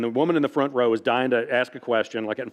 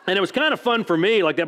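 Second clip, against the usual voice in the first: higher voice with laughter in it; laughing; 6 semitones higher than usual. Real, not acted. Author laughing at himself while telling the audience, higher voice. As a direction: talk through a laugh.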